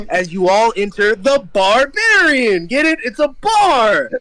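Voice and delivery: grand, proud delivery of a bad joke; hammed-up pun reveal. Game master hams up bar pun.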